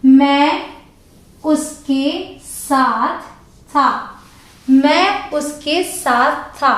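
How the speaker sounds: very slow, word by word; slow example read. Shown as a demonstration. Teacher reading example sentence slowly to class. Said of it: "examples हैं".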